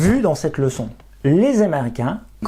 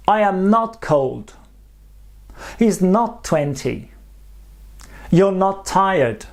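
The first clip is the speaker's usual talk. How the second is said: slow demo reading; 2 semitones higher, slower than usual. Shown as a demonstration. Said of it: "voilà ce que ça donne".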